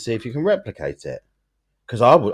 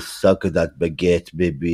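put-on French accent; 3 semitones lower, 3 dB louder than usual. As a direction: lay on an amorous French accent. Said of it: "you're talking like, uh, the French".

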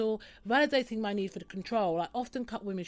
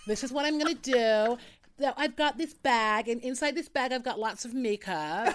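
mock YouTuber makeup haul; 3 semitones higher, 3 dB louder than usual. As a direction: present the makeup bag like a beauty vlogger. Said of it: "you sound like one of the American YouTubers".

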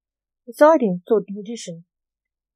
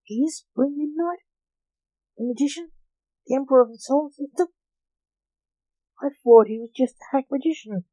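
bubbly forgetful goldfish voice; 6 semitones higher than usual. A narrator's reading. Goldfish character, astonished questions.

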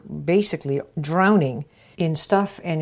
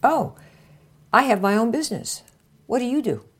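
casual intro line; 5 semitones higher than usual. Shown as a demonstration. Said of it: "Now, here you go".

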